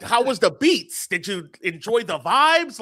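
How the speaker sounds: lightly imitated hip-hop slang, drawn out slowly; mock a brand trying to sound hip-hop; slow, hammed-up hip-hop greeting. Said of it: "a hip-hop voice".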